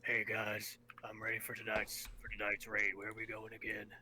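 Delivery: lightly voiced raspy old gamer; a hint of a raspy old man. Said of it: "Sound about like this".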